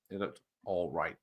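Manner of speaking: unvoiced whispered aside. Real, not acted. Whispering an aside mid-chat, whisper. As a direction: drop to a breathy whisper.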